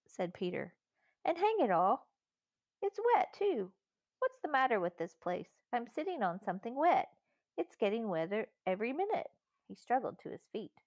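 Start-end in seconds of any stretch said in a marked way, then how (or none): 1.2-9.3 put-on higher-pitched, indignant boy character; fed-up child in a read-aloud story; exasperated boy. A narrator's reading. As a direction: complain in a boy's higher voice, pitch jumping on the grievance. Peter complains in story dialogue.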